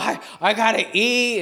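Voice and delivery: put-on hangry zombie child. Asher demanding food, mock hangry zombie voice. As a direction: imitate a child turned zombie by hunger. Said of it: "turns into a zombie".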